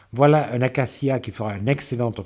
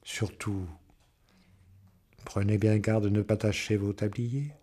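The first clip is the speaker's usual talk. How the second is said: friendly smile; 2 semitones lower, 5 dB quieter than usual. A narrator's reading. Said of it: "avec un beau sourire d'amitié".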